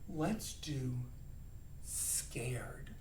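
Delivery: hushed, dropping to a whisper; scared. Shown as a demonstration. Teacher introducing the next emotion, scared. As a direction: shrink the voice down in fear.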